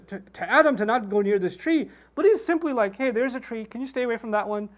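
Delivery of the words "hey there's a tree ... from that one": casual, easygoing acted request; imitated laid-back voice; chill. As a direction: make a light, no-big-deal ask. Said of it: "He seems pretty chill".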